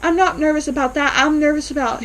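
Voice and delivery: doctor frantically backpedalling to the patient, high and rushed; flustered denial. Retold or imitated. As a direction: scramble to cover a slip. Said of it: "he's trying to, like, think of".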